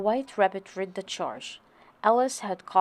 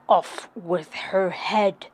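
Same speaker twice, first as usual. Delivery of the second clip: slow loud royal command; shouted; 5 dB louder, slower than usual. A narrator's reading. Queen shouting the order at the court. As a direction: roar the order slowly. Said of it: "the Queen shouted once more".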